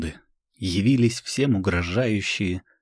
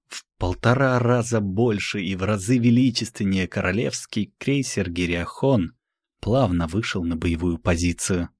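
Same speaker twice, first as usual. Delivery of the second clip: usual speaking voice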